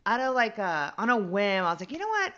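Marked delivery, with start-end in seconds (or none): 1.9-2.3 jumps way up on the first words; a bright, sudden thought, retold; sudden idea.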